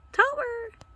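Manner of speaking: high, calling the cat's name; calling out a pet. Real, not acted. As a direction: call out to the cat.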